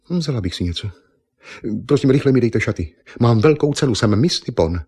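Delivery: a proud beauty queen insulted; indignant Miss Nippon. Acted. Miss Nippon demands clothes.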